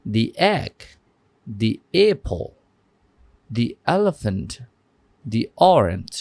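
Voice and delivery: "the" said as dee before each vowel word; "the" as thee. Shown as a demonstration. Teacher repeating examples to students, "the" said as thee. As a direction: say "the" as thee before egg, apple, elephant, orange. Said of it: "আবারও বলছি".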